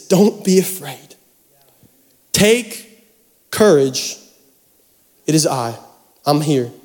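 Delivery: slow, spaced-out, lightly voiced calm; calm reassurance. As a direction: reassure them gently, pausing between phrases. Jesus calms the frightened disciples.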